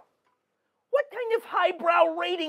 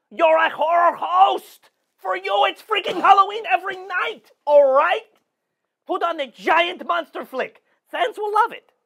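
loud lecturing; 3 semitones higher, 5 dB louder than usual. Acted. Mentor lecturing host loudly.

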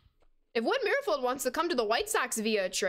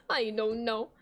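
laughing. Shown as a demonstration. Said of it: "It'd be like this".

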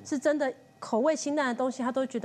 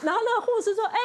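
laughing while retelling, higher and faster; 7 semitones higher, faster than usual. Retold or imitated. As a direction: giggle through the announcement.

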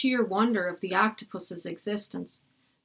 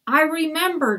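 put-on boy shouts, higher, louder; shouted; 7 semitones higher, 4 dB louder than usual. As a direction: call out the sudden memory. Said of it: "Jack shouted".

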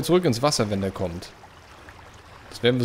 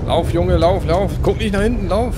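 urgent shouting; 7 semitones higher, 7 dB louder than usual. Real, not acted. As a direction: yell the runner onward. Urging character to run.

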